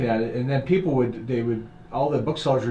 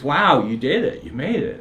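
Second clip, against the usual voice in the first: slow, louder, impressed wow; amazed congratulation; 3 semitones higher, 6 dB louder than usual. Retold or imitated. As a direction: marvel at their success as she did. Woman's amazed congratulation, retold.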